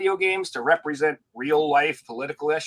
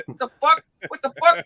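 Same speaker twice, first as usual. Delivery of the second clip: hammed-up much higher outraged yelling; mock outraged gamer; 10 semitones higher, 4 dB louder than usual. Duped customer yelling at the game companies, hammed-up high pitch. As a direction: squeal it in mock disbelief.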